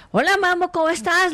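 sturdy, matter-of-fact pet greeting; firm, strong voice. Shown as a demonstration. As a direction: greet the dog firmly, no cooing. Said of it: "con voz fuerte".

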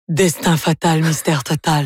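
"Destin fatal, mystère total" intoned as a grave title; dramatic title pronunciation. Shown as a demonstration. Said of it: "je pense que ça se prononce".

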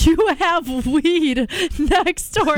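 slow, drawn-out disbelief; incredulous Huggy. Retold or imitated. Friend repeats the old man's offer in slow disbelief. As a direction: spell it out slowly, not believing it. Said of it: "And Huggy's like".

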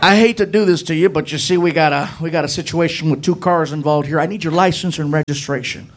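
lightly voiced fan cop. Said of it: "I'm looking at him like".

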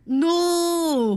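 exaggerated reaction to shocking gossip; mock dismay. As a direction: stretch it out in playful disbelief. Co-host reacts to listener's warning.

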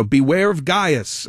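slow, measured warning in a light Commodus voice; slow menacing emperor line; Commodus quote. Retold or imitated. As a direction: say it like a brooding emperor, drawn out. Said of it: "This is Commodus".

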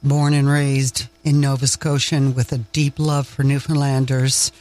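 Maritime Canadian accent, lightly put on. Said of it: "I've gotta put on my maritime accent".

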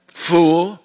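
Fool with a sharp lift, exclaimed. Acted. God rebuking the rich man, sharp exclamation. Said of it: "with an exclamation point".

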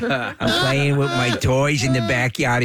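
a hint of an eight-year-old at play; little girl voice. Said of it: "Can you imagine, like, an eight".

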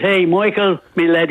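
lightly acted Irishman hailing his mate; Irish accent. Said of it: "I love the accent".

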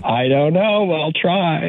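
hammy put-on sexy voice; mock sexy voice. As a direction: overdo the seductive voice. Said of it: "don't do that voice".

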